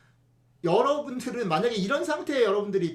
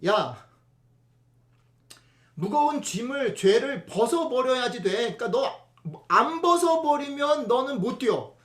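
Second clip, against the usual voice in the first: stern preacher's command; 3 semitones higher, 5 dB louder than usual. Shown as a demonstration. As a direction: preach it as a hard, pushy demand. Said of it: "이렇게 읽으면 안 된다는 겁니다".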